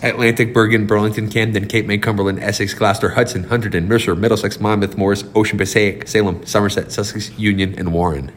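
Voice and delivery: low, even list-reciting voice; rote recitation. Shown as a demonstration. Host proving he knows his state, rote recitation. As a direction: rattle off names by rote, pitched low. Rattles off memorized county list.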